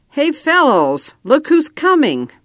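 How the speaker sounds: yelled warning. A narrator's reading. Boy calls teammates as cowboys ride up, high then hushed. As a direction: call out to the boys, then hush as riders come.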